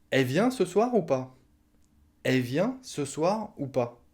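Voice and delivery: "Elle" cut to just "è"; dropped L. Shown as a demonstration. Asking about the cousin tonight, L swallowed. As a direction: say "è vient ce soir ou pas?" without the L. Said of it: "On va le dire est".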